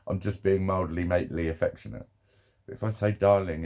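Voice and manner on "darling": soothing darling. Shown as a demonstration. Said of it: "that coo-, like, soothing".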